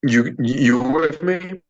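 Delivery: breaking-up robotic call audio; robotic connection. Real, not acted. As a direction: voice glitching like a bad line. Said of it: "you coming in robotic".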